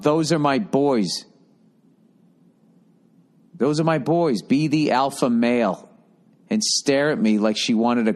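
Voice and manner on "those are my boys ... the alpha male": mom yelling out. Retold or imitated. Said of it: "she would yell out".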